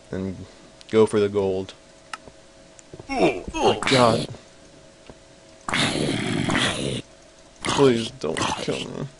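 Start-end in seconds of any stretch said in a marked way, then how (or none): 3.1-9.1 begging the zombie slowly; terrified horror victim. Real, not acted. Zombie attacking him.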